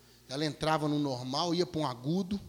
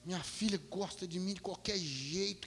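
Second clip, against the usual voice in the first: softer, slow and wondering; moved reflection; 6 dB quieter than usual. Real, not acted. Father walking out amazed at his daughter's words, soft and wondering. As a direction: murmur it to yourself, touched. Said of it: "que coisa".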